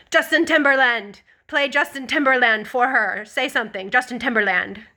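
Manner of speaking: calling out. Retold or imitated. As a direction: mimic a nurse putting in a request. Nurse calling out a song request.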